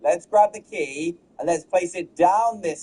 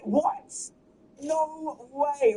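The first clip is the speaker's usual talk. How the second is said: high squeaky surprised neighbor; 10 semitones higher, 6 dB quieter, much slower than usual. Retold or imitated. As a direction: squeak it out in disbelief. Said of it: "He said".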